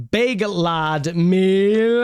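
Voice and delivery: drawn-out hype. Acted. Hyping the meal to listeners.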